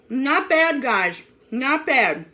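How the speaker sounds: talking while chewing; words round a bite of food; mouth full. Real, not acted. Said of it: "not talking with your mouth full".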